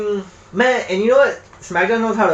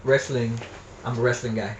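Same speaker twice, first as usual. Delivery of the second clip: wrestling promo; 6 semitones lower, 8 dB quieter than usual. Pretend. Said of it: "I'm cutting a promo".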